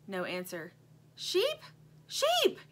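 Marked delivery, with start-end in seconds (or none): 1.2-1.6 high rising call. A narrator's reading. Lumpy calling the toy sheep, high call. 2.1-2.6 very high, louder insistent call; urgent call. A narrator's reading. Lumpy calling the sheep more urgently, high shout.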